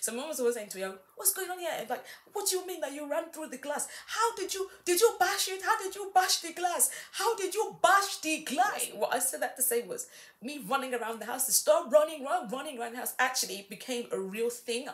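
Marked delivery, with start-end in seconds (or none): 0.8-8.9 put-on Nigerian accent in a very high pitch. Retelling a mum asking after the glass broke: imitating Nigerian-accented mum. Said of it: "that's why I put on the accents".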